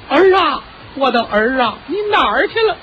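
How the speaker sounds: calling out. Retold or imitated. Mother's voice calls the son in the night, high calling. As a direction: call for a lost son. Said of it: "又听见喊".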